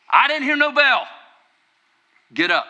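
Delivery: loud boxing trainer's rallying cry; Mickey. Acted. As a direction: yell the fighter back onto their feet. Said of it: "here's what I want you to hear".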